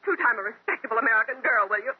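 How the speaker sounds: high-pitched, building tirade; wife threatening divorce to husband; raging threat. Acted. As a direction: unload all the fury on him.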